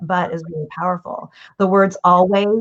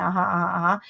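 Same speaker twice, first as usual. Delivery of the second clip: softer, repeated listener murmurs; attentive listening; 6 dB quieter, much faster than usual. Retold or imitated. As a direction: murmur along to show attention. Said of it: "totally paying attention".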